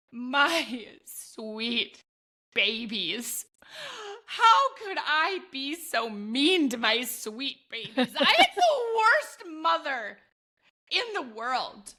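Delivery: dramatic guilty lament that breaks into a laugh; mock remorse. Mom regretting yelling at her kids, hammed-up lament. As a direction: ham up the guilt over your sweet babies. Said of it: "Performance of a century".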